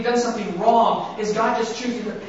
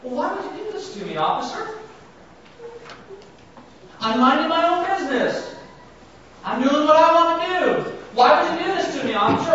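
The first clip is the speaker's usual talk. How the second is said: mock whining driver, higher, complaining; whiny driver; 7 semitones higher than usual. Speeder blaming the officer, mock whining. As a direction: whine at the cop like a spoiled kid. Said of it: "we start blaming the cop".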